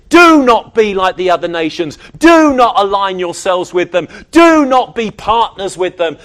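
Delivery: loud, preached command, hard on each opening; emphatic divine command. Acted. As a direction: lay down the law as God, mildly acted. Quoting God's commands to Israel.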